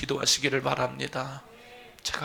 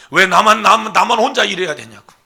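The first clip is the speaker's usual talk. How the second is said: loud, higher plaintive complaint; complaining cry; 8 semitones higher, 16 dB louder than usual. Retold or imitated. Pastor voicing Elijah's complaint, loud plaintive cry. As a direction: cry out why me, alone.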